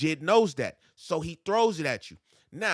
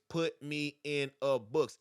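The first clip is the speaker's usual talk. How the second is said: slow spoken breakdown; 3 semitones lower, 7 dB quieter, slower than usual. Shown as a demonstration. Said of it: "it's three syllables".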